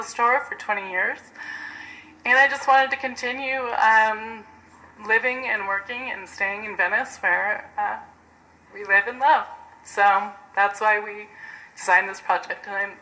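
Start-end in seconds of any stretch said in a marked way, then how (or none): 2.2-12.9 shaky voice. Real, not acted. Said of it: "excuse my shaky voice".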